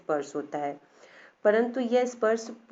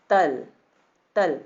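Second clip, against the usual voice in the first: 1 example word stressed; 3 semitones lower, 6 dB louder, slower than usual. Shown as a demonstration. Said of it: "जैसे कि".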